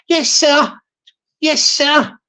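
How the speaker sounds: light put-on servile shop voice; shop server voice. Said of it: "you know that's my real voice".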